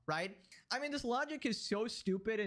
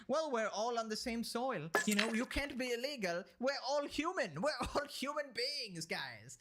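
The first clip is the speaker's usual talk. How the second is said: mocking imitation; 2 semitones higher than usual. Mocking someone who says nobody can be illegal, naively pleading. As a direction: parody a naive do-gooder argument. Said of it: "when you go and say dumb shit like".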